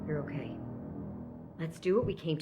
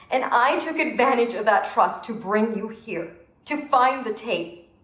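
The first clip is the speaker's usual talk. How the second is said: higher, forceful self-blame; anguished self-accusation; guilty confession; 5 semitones higher than usual. Acted. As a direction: admit the betrayal with raised pitch.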